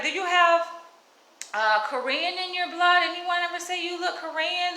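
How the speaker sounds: mimicking the white lady. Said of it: "This is what the white lady said".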